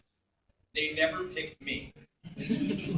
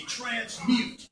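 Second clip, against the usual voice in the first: higher, put-on anime hero call; Mark from G-Force; 6 semitones higher than usual. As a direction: call it out like a cartoon superhero. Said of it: "he would say".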